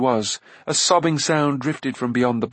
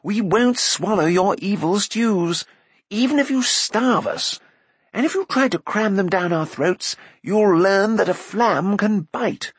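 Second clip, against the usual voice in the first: indignant shout; 9 semitones higher than usual. A narrator's reading. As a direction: shout insults at an enemy. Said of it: "he shouted".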